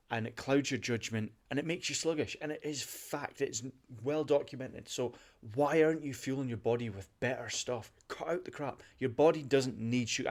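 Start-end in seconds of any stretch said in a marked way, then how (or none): 5.6-10.3 impassioned plea, really worked up; super passionate. Real, not acted. Podcast host urging listeners to eat better, super passionate. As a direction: press the point home with passion. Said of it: "And I get super passionate about this".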